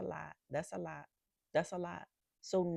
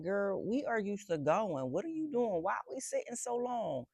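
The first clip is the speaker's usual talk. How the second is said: complaining nervous system; 5 semitones higher than usual. Retold or imitated. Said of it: "my nervous system, like".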